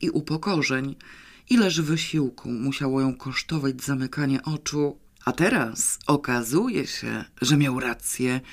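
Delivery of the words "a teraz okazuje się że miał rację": sarcastic. Acted. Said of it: "z sarkazmem i nienawiścią".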